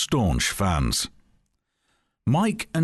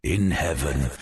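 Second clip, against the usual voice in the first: disembodied voice; 4 semitones lower than usual. Acted. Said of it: "said Joe's disembodied voice".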